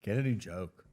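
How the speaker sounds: low vampire count voice; deep menacing Count impression; transylvanian accent. Count voice insulting Johnny.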